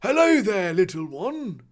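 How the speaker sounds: amicable greeting. Acted. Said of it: "the man greeted amicably".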